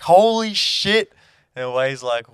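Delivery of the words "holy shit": high, slow, loud shriek; retold scream. Telling his mate how he screamed at the mouse, high drawn-out shriek. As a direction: shriek it, stretched out in panic. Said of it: "And I was screaming".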